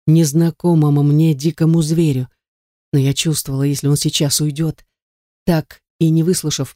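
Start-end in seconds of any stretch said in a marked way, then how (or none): none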